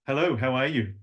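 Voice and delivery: gently lilting greeting; a hint of tune in the hello; light sing-song. Shown as a demonstration. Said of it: "This is where I work most of the time".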